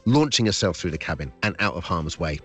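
lively storybook reading voice; story narration. Acted. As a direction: read it like a bedtime adventure. Reads his story aloud.

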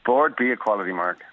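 voiceover sign-off delivered on request; ad tagline. Shown as a demonstration. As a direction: finish it like an advert slogan. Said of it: "go on, you do it".

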